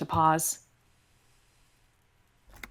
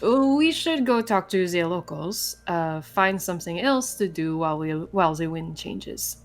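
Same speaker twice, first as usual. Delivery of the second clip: put-on vaguely Russian accent; 5 semitones lower than usual. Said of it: "I'm still gonna sound vaguely Russian".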